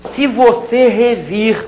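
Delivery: revir drawn out slowly; slow down on "revir" to show it; slow demo. Shown as a demonstration. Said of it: "olha esse aqui". (dizer "revir" devagar)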